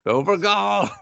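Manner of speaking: GOLD called out in a high voice; high mock cheer. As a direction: urge them on with a high-pitched "Go for gold".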